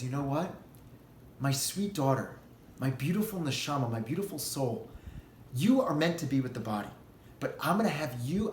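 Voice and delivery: tender God. Acted. God comforts the soul.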